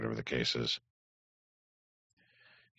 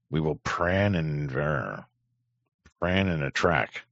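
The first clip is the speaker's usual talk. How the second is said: mock Chinese accent; slower than usual. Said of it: "such a fucking thick accent".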